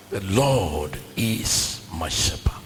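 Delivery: hushed whisper, slow; slow reverent whisper. Acted. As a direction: breathe the verse slowly. Whispered scripture in sermon.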